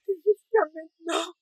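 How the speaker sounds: rising hurt and anger; angry. Acted. Wife confronting husband.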